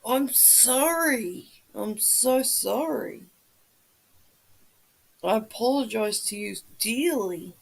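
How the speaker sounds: drawn-out, slow apology; slow, sheepish sorry to a viewer. Real, not acted. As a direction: stretch each sorry out slowly. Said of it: "I got it wrong".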